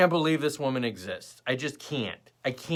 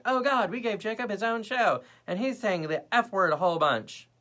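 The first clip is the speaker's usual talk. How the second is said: high-pitched mock regret; mock dismay; 8 semitones higher than usual. Imagined viewers regret hiring Jacob, high mock dismay. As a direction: play viewers aghast at their own choice.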